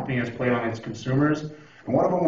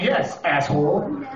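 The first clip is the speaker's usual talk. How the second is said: slow, drawn-out sarcasm; sarcastic retort; 5 semitones higher, slower than usual. Retold or imitated. Stranded driver to helpful stranger, sarcastic. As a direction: draw out the answer to a dumb question. Retort to dumb question about gas.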